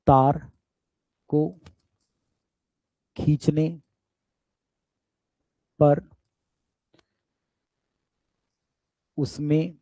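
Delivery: word by word, long pauses between words; slow dictation. Real, not acted. Teacher giving students a definition to write down, slow dictation. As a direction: dictate slowly for note-taking.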